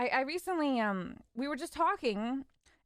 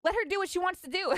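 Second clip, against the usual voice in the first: indignant mom; 6 semitones higher than usual. Retold or imitated. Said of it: "she stood up and she was just like".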